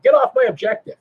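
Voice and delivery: lightly voiced knight shooing Marines away; mock territorial bark; stomping knight. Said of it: "they get to stomp, stomp, stomp".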